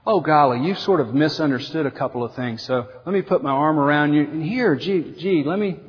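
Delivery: a hint of a meek, overly nice pastor; mock gentle. Mock soft-spoken Jesus.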